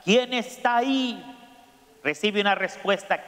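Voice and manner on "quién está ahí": curious shout. Acted. Curious boy calling to the echo, higher shout. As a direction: shout out to find who answered. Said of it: "el niño grita".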